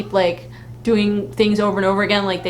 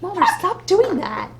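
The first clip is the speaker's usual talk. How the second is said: high, laughing scold, louder at the end; mock Scully scolding; 12 semitones higher, 4 dB louder than usual. Scully scolding Mulder over Costco samples, high and laughing.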